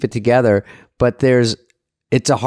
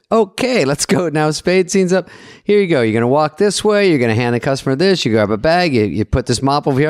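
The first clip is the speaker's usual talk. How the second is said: higher-pitched director rattling off blocking; brisk director; 4 semitones higher than usual. Retold or imitated. Director walks the actor through the scene, mock-directing. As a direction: act out a director giving cheerful orders. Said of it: "And then he goes".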